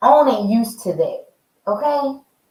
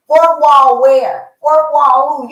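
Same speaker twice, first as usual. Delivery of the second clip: exclaiming; 4 semitones higher, 5 dB louder, slower than usual. Real, not acted. Exclaiming chaos on set.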